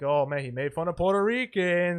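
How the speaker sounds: slow, lightly put-on complaint; mock grievance. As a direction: imitate someone wearily taking offence. Mocks complaining about ethnic jokes.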